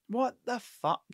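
high, breathless laugh; laughing in disbelief. Real, not acted. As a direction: laugh at losing the thread. Losing his train of thought.

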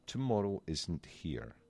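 gentle storybook reading with a light Panda voice; calm, unhurried children's story reading; story narration. A narrator's reading. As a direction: read it softly, like a bedtime story.

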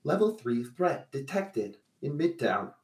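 flat robotic alert voice. Acted. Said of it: "robotic voice says".

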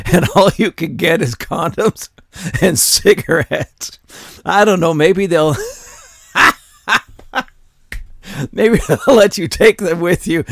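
high, laughing incredulity; giggling disbelief at the thieves. Real, not acted. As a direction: rant while cracking up.

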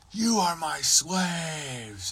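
mock pompous decree, slow; imitating the boss. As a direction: spell out each word like a grand self-declared ruler. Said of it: "And he's like".

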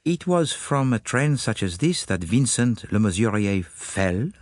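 a light lift on the word "fell" as a question; detective hinting at foul play, leaning on "fell"; slight stress on fell. Acted. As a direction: lean gently on "fell?" with a rising tune. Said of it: "He put a slight accent on the word fell".

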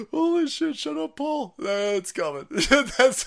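ordinary talk, nothing marked

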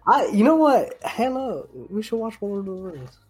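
excited high plea. Real, not acted. Excited pitch, pleading suggestion.

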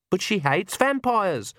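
high, slow dismay; dismayed protest. A narrator's reading. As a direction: plead the point. Agnes protesting.

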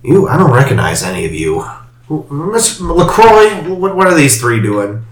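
put-on high, cracked old woman voice; squinting old crone. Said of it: "A very old woman is gonna emerge".

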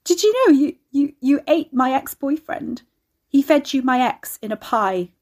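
high, spluttering, laughing revelation; loud, barely controlled hilarity; hysterical amusement. A narrator's reading. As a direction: stumble over the words with laughter. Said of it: "snorted, and shook her head".

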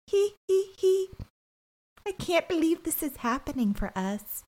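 high, giggly, gushing; high breathy giggle, then a hushed gush; mock giddy giggle. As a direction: giggle like a smitten girl. Mocking Raquel's giddy giggling.

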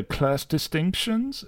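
high, slow questioning retort; lightly voiced Steiner. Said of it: "Steiner comes back with".

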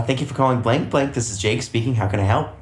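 bright phone greeting, fast; customer service voice. Shown as a demonstration. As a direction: chirp it like a phone rep. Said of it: "pretend you're on the phone".

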